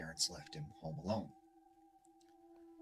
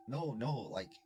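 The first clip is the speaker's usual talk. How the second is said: put-on higher, urgent girl's plea; 5 semitones higher than usual. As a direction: push him to open the door now. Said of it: "And she's like".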